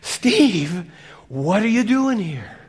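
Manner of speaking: loud, high call of God; God calling Steve, loud and high. Retold or imitated. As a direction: call him by name from above. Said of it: "pretty soon he says".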